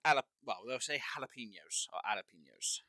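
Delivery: jalapenos without a hard English J; other people's pronunciation. Shown as a demonstration. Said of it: "I know people would pronounce".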